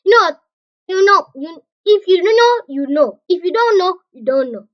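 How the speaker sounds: loud, high, playful; excited. Real, not acted. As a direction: tease the viewers. Excited riddle to viewers.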